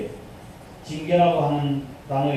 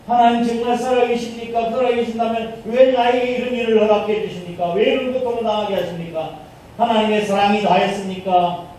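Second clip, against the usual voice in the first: higher, louder aggrieved questioning of God; complaint to God; 4 semitones higher, 3 dB louder than usual. Retold or imitated. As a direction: voice a wronged believer's protest. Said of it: "하고 원망하고 불평하는 거예요". (하나님께 억울하게 따지는 원망조)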